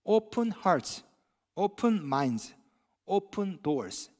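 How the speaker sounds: slogan read slowly. Shown as a demonstration. Pastor quoting the church slogan, slow and deliberate. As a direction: Open hearts open minds open doors drawn out word by word. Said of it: "이런 슬로건이 있습니다".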